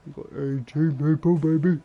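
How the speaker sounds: excited. Real, not acted. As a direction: celebrate it out loud. Repeats the count, hyped up.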